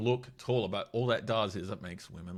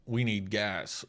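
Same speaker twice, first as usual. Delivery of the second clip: mocking paraphrase; 5 dB louder, slower than usual. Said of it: "He seems to be saying".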